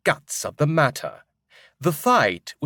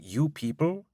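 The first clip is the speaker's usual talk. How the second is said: offended echo; 4 semitones higher, 5 dB quieter than usual. Acted. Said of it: "I'm quite offended by this".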